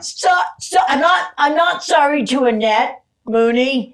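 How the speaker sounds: high, loud, laughing; laughing apology. Retold or imitated. Laughing apology to the poor secretary. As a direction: confess it through laughter. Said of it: "I went".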